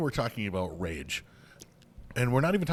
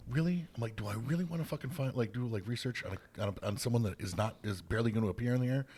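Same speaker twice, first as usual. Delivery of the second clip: reluctant disbelief; 5 dB quieter than usual. Retold or imitated. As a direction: question yourself in reluctant disbelief. Voices own reluctant inner question.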